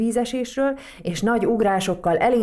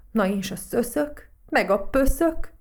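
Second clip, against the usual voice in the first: mildly anguished, rising higher and louder; pained cry; 5 semitones higher, 4 dB louder than usual. A narrator's reading. Matild crying out for the dust bunnies, pained cry. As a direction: cry out in hurt concern, questioning. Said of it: "kiáltott fel fájdalmasan".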